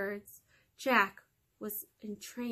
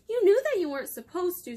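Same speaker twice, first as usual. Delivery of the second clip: angry mother; 8 semitones higher, 6 dB louder, faster than usual. Acted. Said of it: "She was very angry with Jack".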